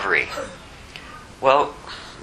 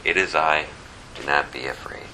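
softer, sinking to a whisper; gentle reassurance; 7 semitones lower, 5 dB quieter than usual. Retold or imitated. Jesus soothing disciples in the storm, dropping to a whisper. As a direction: hush their fear, fading to a whisper. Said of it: "So Jesus has to say".

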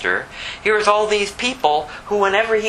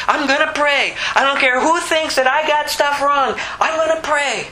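desperate cry; 8 semitones higher than usual. Acted. Beggar crying out despite crowd.

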